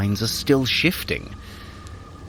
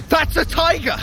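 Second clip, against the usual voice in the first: high, startled cry of discovery; high alarmed shout, tiger!; alarmed realisation. Acted. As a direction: spot the danger and sound the alarm.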